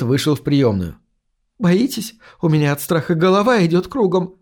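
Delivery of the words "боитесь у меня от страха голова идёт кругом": higher-pitched, understated nervousness; a touch of fright in a woman's confession; fearful. A narrator's reading. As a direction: let mild dread lift the voice. Frightened woman confides her fear.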